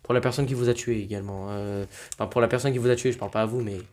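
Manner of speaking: loud furious outburst; angry. Real, not acted. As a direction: rage at the killer, loud. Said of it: "j'ai la rage".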